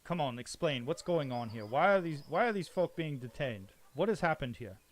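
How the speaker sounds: loud demanding lord; demanding nobleman. Acted. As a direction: demand an explanation. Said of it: "Barnabas says".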